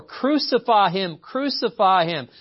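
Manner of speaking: loud, high, slow proclaimed shout; drawn-out shouted chant from scripture; crowd shouting. A narrator's reading. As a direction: cry it out as the crowd, word by word. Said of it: "they shouted all the more".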